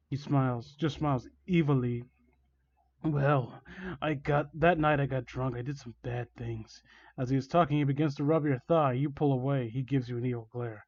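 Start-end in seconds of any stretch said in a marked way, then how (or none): 3.0-6.8 slightly lowered, quiet villain voice; villain confession. Acted. Villain confesses to victim, quietly sinister. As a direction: let it sink softer toward the end.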